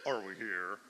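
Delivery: HERE dropped to a low note; low key. Shown as a demonstration. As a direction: pitch HERE way down. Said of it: "telling us the key".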